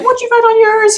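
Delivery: nosy whisper-like question. Retold or imitated. Asking Kira at circle.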